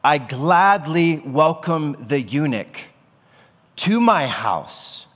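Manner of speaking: slow, broad, welcoming voice of God; gladly welcoming. Acted. God welcoming the foreigner and eunuch, slow and glad. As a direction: open your arms with every word. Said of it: "God is talking and he's saying".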